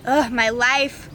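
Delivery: slow groaning sigh; dramatic sigh. Real, not acted. Sad about her stolen board.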